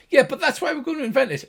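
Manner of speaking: fast, high arguing gnome; high-pitched gnomish voice. Acted. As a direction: bicker quickly as a little gnome. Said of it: "the two high-pitched gnomish voices".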